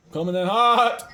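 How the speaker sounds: loud, stretched last word; excited call-out. Real, not acted. Player rushing into the fight, excited call-out.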